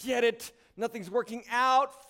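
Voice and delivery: mild mock exasperation, slowing at the end; lightly acted helpless frustration. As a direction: play someone wringing their hands. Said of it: "Frustration with life".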